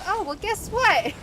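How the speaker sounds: high, loud mock-excited setup; hammed-up teasing news. Caller sets up hurricane news, hammed-up excitement. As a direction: build it up big for the reveal.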